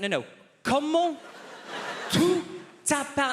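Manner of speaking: very high, strained, cracking into a laugh; desperate professor. Retold or imitated. Professor at breaking point over the student's answer, very high pitch. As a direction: squeak it out at the end of his rope.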